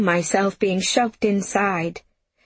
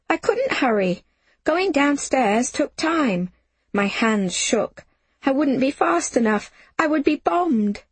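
panicked narration; 7 semitones higher than usual. A narrator's reading. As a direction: dread mounting as you narrate. Narrator panics in the air raid.

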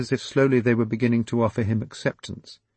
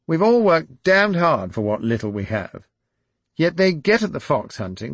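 higher, louder aggrieved aristocrat; Mickey by the fire rallying his friends, rising indignation; indignant Mickey; 7 semitones higher, 6 dB louder than usual. Acted. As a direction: push it up into blustering outrage.

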